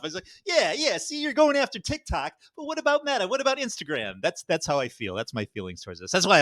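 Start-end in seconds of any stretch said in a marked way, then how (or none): 0.4-4.1 mock pissed off. Retelling his reaction to the TikTok news, pissed off in a high mock voice. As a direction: whine the objection in a high, hammed-up voice. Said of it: "I'm all pissed off".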